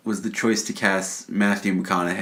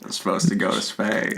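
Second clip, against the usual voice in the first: Matthew McConaughey. Acted. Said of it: "Matthew talks like this".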